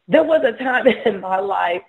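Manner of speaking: starts the line and breaks into a laugh. Real, not acted. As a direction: chuckle through the memory. Laughs mid-sentence recalling past.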